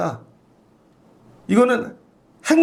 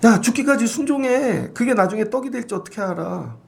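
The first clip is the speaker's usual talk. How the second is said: forceful exhortation; 3 semitones higher than usual. Real, not acted. 회중에게 외치는 설교.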